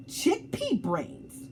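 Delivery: whispered taunt; whispered schoolyard insult; sneaky whisper. Acted. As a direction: hiss the insult behind your hand. Kids trading insults.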